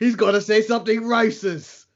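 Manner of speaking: botched attempt at a Scottish accent; bad Scottish accent. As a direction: slip lightly into a poorly faked Scottish accent. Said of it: "That's not my Scottish accent".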